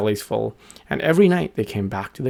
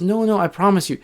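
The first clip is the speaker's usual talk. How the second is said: lightly voiced little bird, higher; earnest promise in a higher voice; little bird insisting; 8 semitones higher than usual. A narrator's reading. Little bird reassures the others.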